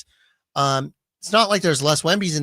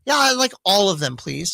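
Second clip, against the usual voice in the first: faux polite; 4 semitones higher than usual. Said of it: "continued act".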